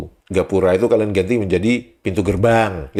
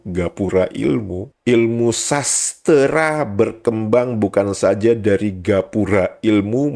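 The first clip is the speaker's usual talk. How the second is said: slow deliberate reading; slower than usual. Real, not acted. Reads rival dictionary example out slowly.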